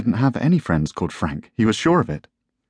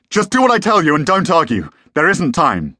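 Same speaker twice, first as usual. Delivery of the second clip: high, loud and commanding; urgent shouted order; 9 semitones higher, 5 dB louder than usual. A narrator's reading. Father ordering his son to obey, urgent shout. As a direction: shout down any argument.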